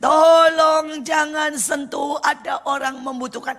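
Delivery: loud, very drawn-out holy intoning; mock spiritual God voice. God addressing His child, parodied lofty spiritual voice. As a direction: boom it slowly like a pious divine summons. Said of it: "selalu rohani dan berkata begini".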